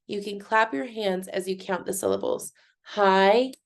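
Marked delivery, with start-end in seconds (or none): 2.9-3.5 HAIKU split slowly into two separate beats; syllable by syllable. Shown as a demonstration. Teacher showing how to count claps, Haiku in separated syllables. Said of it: "If you say it slowly".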